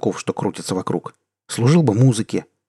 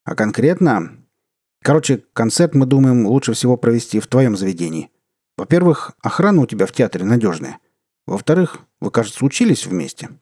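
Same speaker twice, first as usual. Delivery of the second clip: hearty official; 3 dB louder than usual. Acted. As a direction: play the back-slapping boss. Deputy minister continues.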